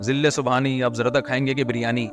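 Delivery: serve it like a servant to the king; lightly voiced formal royal courtesy; courtly royal style. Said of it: "بادشاہوں والا style".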